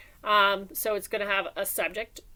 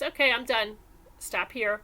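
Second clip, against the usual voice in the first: flat, final statement tone; calm finished statement; period statement. Shown as a demonstration. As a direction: say it as a done, closed statement. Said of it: "just a period that says".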